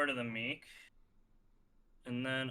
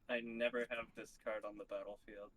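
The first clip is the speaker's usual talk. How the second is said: quick, lower smug walrus; a walrus who thinks you're a dummy; 4 semitones lower, 3 dB quieter, faster than usual. Acted. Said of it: "That was my impression of a walrus who thinks you're a dummy".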